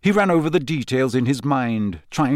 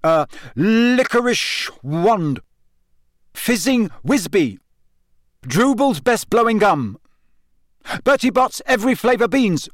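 higher, pleading guesses at the gargoyle; lightly voiced boy guessing; Harry guessing passwords; 9 semitones higher, 4 dB louder than usual. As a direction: try password after password.

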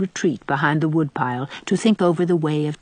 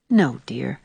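whispering; 4 semitones lower than usual. A narrator's reading. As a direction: whisper it reassuringly. Anne whispers reassurance.

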